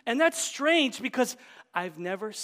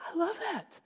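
high and loud, bursting with joy; preacher crying out his delight to the congregation; excited exclamation; 13 semitones higher, 10 dB louder than usual. Real, not acted. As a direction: shout it out in delight.

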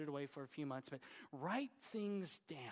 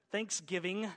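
Thanksgiving louder in an Oklahoma twang, rising at the end; Oklahoma accent; 4 semitones higher, 7 dB louder than usual. Shown as a demonstration. Preacher shows the congregation his Oklahoma accent, louder. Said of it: "that was my Oklahoma accent coming out".

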